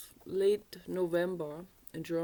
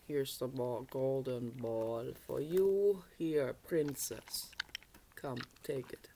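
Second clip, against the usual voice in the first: kindly frog; 4 semitones lower than usual. Acted. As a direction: hand back the ball gently as the frog. Frog voiced in fairy tale.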